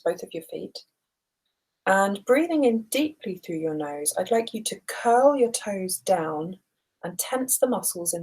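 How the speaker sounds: unhurried body-scan guidance with long pauses; guided relaxation. Acted. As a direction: lead them gently through each breath, leaving room to breathe. Leads a guided breathing body scan.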